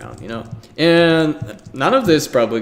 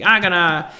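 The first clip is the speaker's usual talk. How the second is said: much higher and louder, eager go-getter pitch; enthusiastic salesman; 10 semitones higher, 5 dB louder than usual. Retold or imitated. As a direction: sell it like an overeager salesman who'll find everybody. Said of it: "the enthusiastic salesman".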